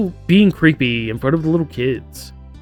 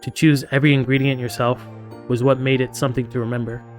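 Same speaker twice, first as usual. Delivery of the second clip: story narration. A narrator's reading. Reads game narration aloud.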